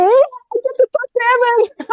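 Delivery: mock-giddy at talking to Evan; excited inner thought. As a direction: squeal it like a kid on a holiday morning. Recalls eager morning thought.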